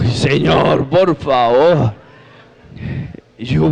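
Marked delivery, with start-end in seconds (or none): 0.0-1.9 slow, drawn-out appeal to the Lord; exasperated plea. Retold or imitated. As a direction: stretch it out like a weary protest. Acted exasperated plea to God.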